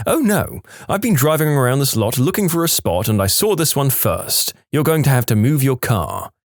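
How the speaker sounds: mock the pushy woman insisting; entitled lady. Rude driver telling the friend to move his car, high indignant mock voice.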